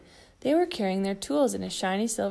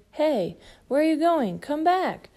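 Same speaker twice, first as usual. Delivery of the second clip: surprised call; 7 semitones higher, 5 dB louder than usual. Acted. Calling after kitten.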